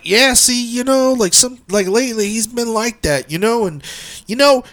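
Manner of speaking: a hint of an employee chiming in; imitated worker. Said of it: "one of their workers comes in".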